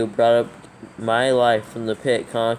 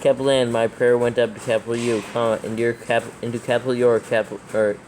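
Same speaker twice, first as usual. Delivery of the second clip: dictating. Acted. Dictating verse with punctuation.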